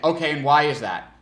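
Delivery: loud challenging question. Shown as a demonstration. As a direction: put them on the spot. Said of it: "That's more of a challenging".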